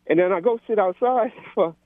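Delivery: panting between words while exercising; out of breath, talking mid-workout. Real, not acted. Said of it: "I'm out of breath".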